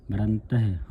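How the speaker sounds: ਮਰੰਤ ਹੈ as marantah-he, h audible; sounded h. Shown as a demonstration. Teacher models the reading, ਮਰੰਤ ਹੈ with audible h. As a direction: breathe out the h in ਮਰੰਤ ਹੈ. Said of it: "ਹਾਹੇ ਦੀ ਆਵਾਜ਼ ਉਚਾਰਨ ਕਰਨੀ ਹੈ".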